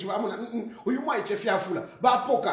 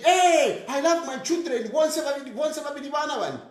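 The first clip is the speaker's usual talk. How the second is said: mocking stage boast; 3 semitones higher than usual. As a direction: ham up a fake loving father. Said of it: "Mwana mina pa stage".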